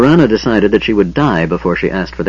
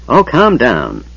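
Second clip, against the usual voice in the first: put-on muttering old man; 3 semitones higher, slower than usual. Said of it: "the old man muttered".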